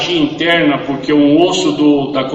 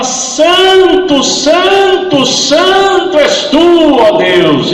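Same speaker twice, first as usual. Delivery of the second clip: high, loud, drawn-out "santo" cries; shouted praise; 10 semitones higher, 6 dB louder, much slower than usual. Retold or imitated. Dying man crying out to God as he screams in pain. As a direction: call out holy, holy, holy to God. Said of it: "E gritava outra vez e falava".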